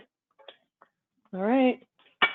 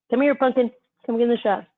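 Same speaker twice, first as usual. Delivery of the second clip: calling a pet; 4 semitones higher, 3 dB louder than usual. Real, not acted. Calling the dog over.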